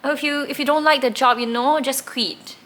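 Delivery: a hint of a father snapping at his crying daughter; upset father. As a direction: raise the pitch and hurry it like a frustrated dad. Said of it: "got really upset".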